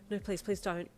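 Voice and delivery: mildly fearful plea. Acted. Patient begging the doctor, fearful. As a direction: plead with a touch of fear. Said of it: "you said fearfully".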